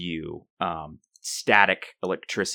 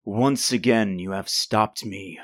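samurai villain voice; 2 semitones lower than usual. Acted. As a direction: speak like a robotic masked villain. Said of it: "Why are you talking like a samurai villain?".

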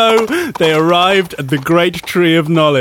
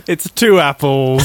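snake voice; 3 semitones lower than usual. Pretend. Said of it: "can I do a snake voice?".

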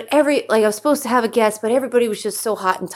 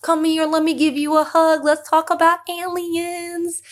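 flirty invitation; 8 semitones higher than usual. Pretend. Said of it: "And I'm like".

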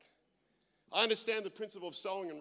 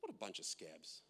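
much lower, softer chuckled quip; laughing jibe; 12 semitones lower, 12 dB quieter than usual. Retold or imitated. Pastor joking to Ines about stingy locals, laughing. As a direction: tease them through a laugh. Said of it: "I said".

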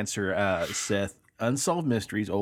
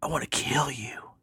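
eerie whisper down a phone line; spooky whispered threat from a stalker girl; creepy whisper; 5 semitones higher than usual. Retold or imitated. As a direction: breathe the threat like a ghost girl. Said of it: "disembodied voice of a girl whispering into a phone".

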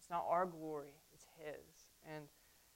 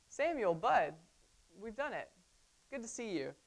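higher, chummy mock cheer; kinda happy Saul; 4 semitones higher than usual. Saul greeting Samuel after disobeying, mock cheerful. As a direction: play Saul as pleased with himself. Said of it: "He's kinda happy".

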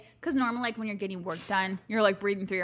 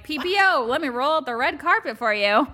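higher, louder fawning welcome; mock fawning receptionist; 3 semitones higher, 5 dB louder than usual. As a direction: roll out the red carpet. Mocking dentists favouring PPO.

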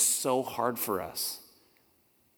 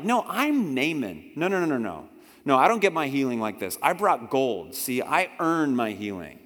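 indignant protest; 3 dB louder than usual. Acted. Naaman voiced, indignant.

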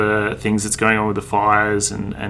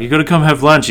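imitating Danny; 7 semitones higher, 7 dB louder than usual. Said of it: "where he's like".

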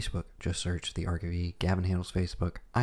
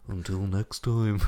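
Until next time slowly drawn out, fighting off laughter; dramatic sign-off, laughing; slower than usual. Pretend. Signing off the podcast with a laughing, slow theatrical until next time. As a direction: stretch the farewell through a giggle. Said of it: "I'm not gonna do it like this".

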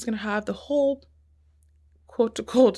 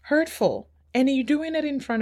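emotional; 5 semitones higher than usual. Real, not acted. Woman naming the hurt of being racially profiled, emotional. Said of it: "sorry, I'm getting emotional".

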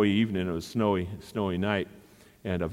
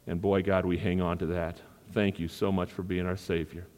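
closing prayer. Acted.

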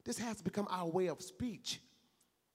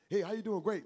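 superficial greeting; 3 semitones higher, 6 dB louder than usual. Retold or imitated. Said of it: "don't just say it superficially".

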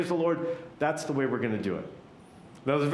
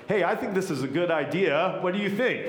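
pitched-up, chatty suggestion rising to a question; casual invitation; 4 semitones higher than usual. Acted. Celebrant casually putting an idea to the congregation, inviting. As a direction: float it as a friendly invitation. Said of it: "There's an invitation there".

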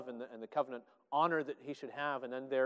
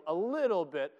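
getting excited; 2 semitones higher, 5 dB louder than usual. Real, not acted. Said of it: "I'm getting too excited".

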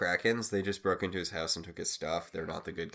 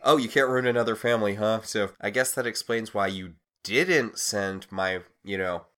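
loud, fast sarcastic comeback; mock indignant retort; 6 dB louder than usual. Podcaster acting Henry confronting Hook, mock indignant. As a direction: throw the words back at them, louder. Henry throws Hook's words back.

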